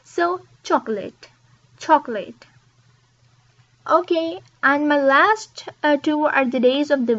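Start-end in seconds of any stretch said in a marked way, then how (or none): 0.6-2.5 chocolate said "choc-lat"; chocolate, in two beats; chocolate, two syllables. Shown as a demonstration. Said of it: "just two syllables".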